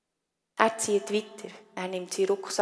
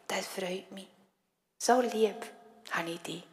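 tender mother. Acted. Mother welcomes child home.

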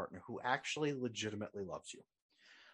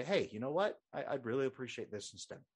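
calm feedback. Retold or imitated. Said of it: "They just calmly say".

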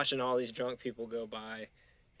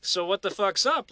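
mock indignant complaint; 7 semitones higher, 7 dB louder than usual. Annoyed guy retelling refusal.

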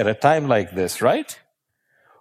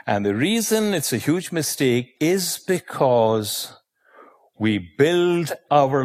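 breathy stage whisper to the audience; 3 semitones higher than usual. Real, not acted. Speaker letting the audience in on a secret, whispered. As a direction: lean in and whisper the reason.

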